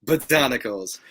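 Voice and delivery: mock-grand imitation of a friend; Dante Drago. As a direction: proclaim it like a running joke. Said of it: "keeps going".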